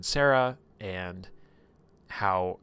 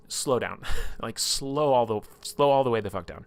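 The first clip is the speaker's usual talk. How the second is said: exasperated plea; 3 semitones higher, 5 dB louder than usual. Retold or imitated. Alarmed plea to slow things down.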